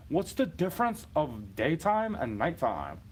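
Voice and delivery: slow, drawn-out sneering question; mocking haters. Mimicking haters who question his night rule, slow and sneering. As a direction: drag it out like a smug heckler. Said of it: "haters will be like".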